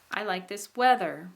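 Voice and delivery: rise-fall on "weather"; first syllable of "weather" carries the emphasis; high tone on WEATHER. Shown as a demonstration. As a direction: stress the "wea" of "weather", then drop. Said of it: "we and weather".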